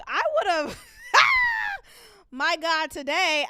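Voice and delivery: very high, loud laughing cry. Real, not acted. Host bursting into laughter, high and loud. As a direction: crack up mid-sentence.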